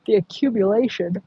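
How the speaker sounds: speaking through a yawn; words stretched by a yawn. Real, not acted. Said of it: "Sorry for the yawning".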